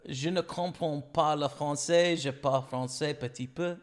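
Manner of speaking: slow beginner French, English accent; foreign accent in french. Shown as a demonstration. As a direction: show off your few French phrases. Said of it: "You know, stuff like that".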